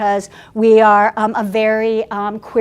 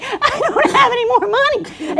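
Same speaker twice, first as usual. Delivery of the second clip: laughing; 13 semitones higher, 4 dB louder than usual. Retold or imitated. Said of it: "I was like".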